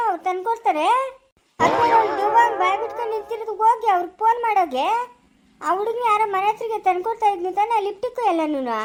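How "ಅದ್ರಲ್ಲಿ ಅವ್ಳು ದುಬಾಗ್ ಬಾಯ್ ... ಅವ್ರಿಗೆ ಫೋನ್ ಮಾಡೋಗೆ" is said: exasperated scolding. Acted. Scolding the careless daughter.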